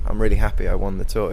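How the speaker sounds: the polite answer he would never give; rattled off like a throwaway quote; bland version. Shown as a demonstration. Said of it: "He can't just say".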